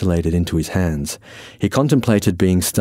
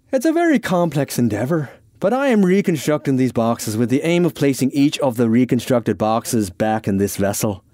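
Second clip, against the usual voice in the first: high start, settling as he explains; a touch of lofty explaining; lightly voiced Irishman; 4 semitones higher than usual. Irishman justifies reconstructing boxes, lightly earnest.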